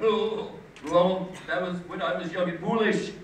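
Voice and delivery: lightly voiced pompous excuse; a hint of stuffy snob on the defensive; Scott. College rival caught with rock records, mildly pompous excuse. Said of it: "he would talk like this about it".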